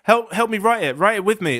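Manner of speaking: high, loud whiny plea; pleading voice. Retold or imitated. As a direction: beg like a helpless student. Voicing Betty begging for help.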